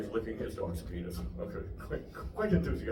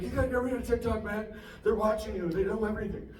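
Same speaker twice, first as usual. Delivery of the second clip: mock yell, pitched up; yelling roommate; 10 semitones higher than usual. Roommate warning about TikTok in a raised mock yell. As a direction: bark it like the conspiracy roommate. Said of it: "He yells everything he says".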